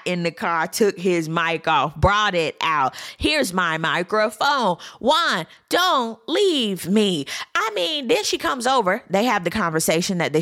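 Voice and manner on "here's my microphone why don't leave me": slow, drawn-out fake pleading; mock melodrama. Pleading for the cameras as he leaves, mock melodrama. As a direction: ham it up for the cameras. Mocks a scene staged for cameras.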